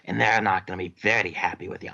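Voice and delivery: light Scottish interrogator voice; Scottish accent. Acted. Dwarf threatening the prisoner in a mild Scottish accent. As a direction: lean into the brogue, menacing. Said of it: "I am so sorry I cannot stick with this accent".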